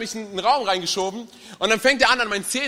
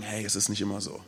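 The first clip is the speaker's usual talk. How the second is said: hushed aside, much softer and lower; mock aside to friend; 12 semitones lower, 10 dB quieter than usual. Churchgoer aside to a first-time friend, hushed and confiding. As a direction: lean over and murmur it to your buddy. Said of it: "dich zu ihm umdrehen und sagen".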